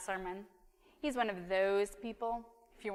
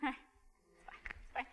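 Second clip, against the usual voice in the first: laughing it off; 3 semitones higher, 11 dB quieter, slower than usual. Real, not acted. Laughs off own joke.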